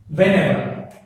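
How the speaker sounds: "whenever" said firmly, weight on "ever"; stress on EVER. Shown as a demonstration. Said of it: "So the stress is on the ever".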